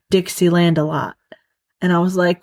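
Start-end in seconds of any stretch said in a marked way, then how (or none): 0.1-1.2 imitating a Southern singer's drawled delight; Southern accent. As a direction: say delight as "a lot," Southern style. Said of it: "He's saying delight, but it's a Southern accent".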